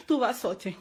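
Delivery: quiet resigned repeat; fading to quiet. Real, not acted. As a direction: let "Tout va sortir" sink to a near murmur. Repeats vow, then fades.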